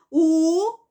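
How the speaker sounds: "U", "ru", "bu" each set apart; separated syllables. Shown as a demonstration. Teacher showing pupils how to separate, syllables one at a time. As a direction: spell it out with "tracinho" between syllables. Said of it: "Aí você vai separar".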